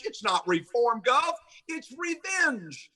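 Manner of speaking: "revenge" drawn out slow and high, set against "reform"; stress on revenge. Real, not acted. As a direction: lean hard on "revenge", dragging it out.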